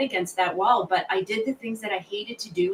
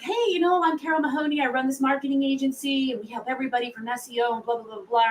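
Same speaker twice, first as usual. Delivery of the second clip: higher, bright-on sales pitch voice, rushing the blah blah; cold call pitch; 5 semitones higher than usual. Retold or imitated. Mom pitches her agency to a stranger on the phone, higher salesy voice. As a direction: put on the salesy phone persona. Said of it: "And I'm like".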